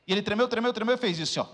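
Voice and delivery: normal talking voice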